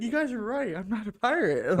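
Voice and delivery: mock pirate voice. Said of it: "He's like".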